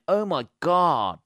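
high, slow imitation of awestruck posters; drawn-out mock wonder; mock amazement. Mimicking amazed Instagram posters.

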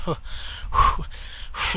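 imitated long puffing breath; struggling puffs. Friend fighting through a drink, imitated heavy puff. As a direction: blow out air like a struggling drinker. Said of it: "he's struggling so hard to get through this drink".

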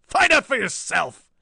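high, loud, drawn-out snarl; defiant snarl. A narrator's reading. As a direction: spit it back like a battered villain. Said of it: "snarled the bruised and battered fiend".

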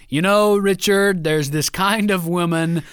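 slow, halting father-to-son talk; a hint of an awkward, drawn-out lecture; imitated fatherly lecture. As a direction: lightly play a father labouring through advice.

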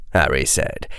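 usual speaking voice

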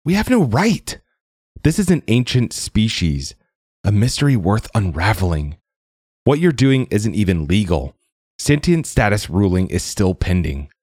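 put-on thin, high, earnest plea from an old recording. A narrator's reading. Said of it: "her voice was thinner and higher".

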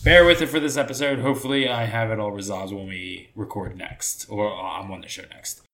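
room echo on the voice; echoey room sound; echoey audio. Real, not acted. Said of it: "my audio sounds a bit echoey".

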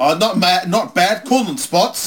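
high, loud reply; yelling. Real, not acted. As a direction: yell it over the microphone. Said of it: "What are you yelling for?".

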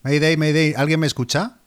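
hammy plea for rescue over the radio; melodramatic distress call. Acted. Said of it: "¿Cómo, cómo te gusta el melodrama?".

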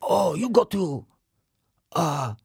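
put-on slow, old sensei voice; Master Splinter voice. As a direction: wise old rat master. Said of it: "Now you're Master Splinter".

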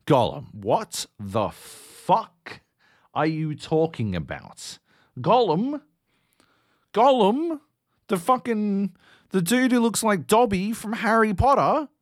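building from slow disbelief to high, loud yelling; incredulous outburst. Retold or imitated. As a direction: executive shouting at the Gollum reveal. Exec reacting to reveal.

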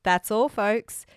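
drawn-out cartoon sign-off, lightly imitated; a hint of a cartoon pig, slow and measured; Porky Pig. Co-host trying the cartoon's famous closing line, mock Porky Pig. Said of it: "You need to find a Porky Pig".

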